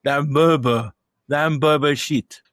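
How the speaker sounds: loud, mangled "Dan Burger" for hamburger; mock mispronunciation. Co-host teasing his mate with the gag, garbled "Dan Burger". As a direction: botch it as "Dan Burger", imitating the film. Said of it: "saying hamburger and fucking it up".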